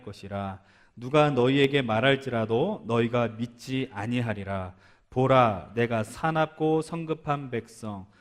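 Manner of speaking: slow, measured Bible reading; scripture reading. Acted. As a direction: read it out solemnly and evenly. Reads God's answer from scripture.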